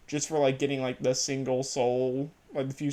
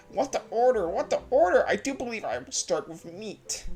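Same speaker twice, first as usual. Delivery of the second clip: lightly voiced shopkeeper, higher pitch; mock shop voice; 6 semitones higher than usual. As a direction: play a chirpy shopkeeper, rising up. Voicing a shopkeeper's line.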